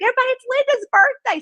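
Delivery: loud, high, rapid shout to a crowd; rally everyone like an excited partygoer; imitated announcement. Guy announcing birthday to trolley.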